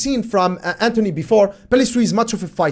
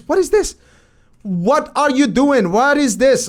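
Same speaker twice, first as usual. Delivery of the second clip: incredulous, pitched-up questions; what-on-earth outrage at a clip; fed-up disbelief; exasperated disbelief; 4 semitones higher than usual. Real, not acted.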